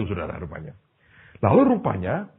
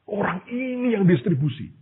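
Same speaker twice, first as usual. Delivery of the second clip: higher-pitched, mildly shocked; startled disbelief; 8 semitones higher than usual. Acted. Man in a vision sees who distributes the blessing, startled disbelief. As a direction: act out a man taken aback. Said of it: "kaget ya".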